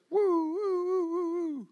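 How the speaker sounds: high playful woo calls; playful kid whoops. Retold or imitated. Boy retelling rolling grapefruits, playful high whoops.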